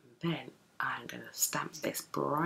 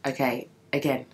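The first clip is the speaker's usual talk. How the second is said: whisper; 3 dB louder than usual. Real, not acted. Early morning, baby asleep.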